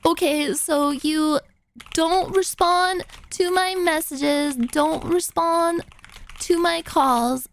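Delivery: slow, deliberate mock annoyance; mildly angry imitation, pausing between phrases; mad driver. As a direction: stretch it out in measured, irritated chunks. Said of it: "even more mad for no reason".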